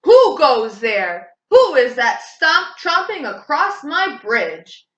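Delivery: troll challenging the big goat on his bridge; troll roaring. Acted. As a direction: roar out the challenge. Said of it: "troll roared".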